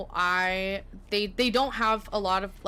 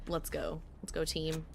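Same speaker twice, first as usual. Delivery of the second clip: mock cheer; 3 semitones lower, 9 dB quieter than usual. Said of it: "we'll just say".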